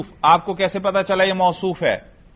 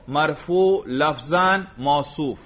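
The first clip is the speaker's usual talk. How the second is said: modelled answer; slower than usual. Shown as a demonstration. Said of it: "رجل کو یوں کہو".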